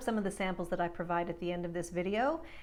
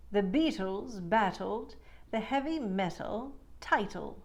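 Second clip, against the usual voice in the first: crisp T drill. Shown as a demonstration. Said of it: "Let's try some more".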